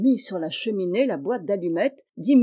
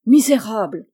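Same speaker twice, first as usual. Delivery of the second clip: louder outraged exclamation; furious cry; 8 dB louder than usual. Acted. Madame Macmish crying out at Charles, loud and outraged. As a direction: explode at the boy. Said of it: "s'écria-t-elle".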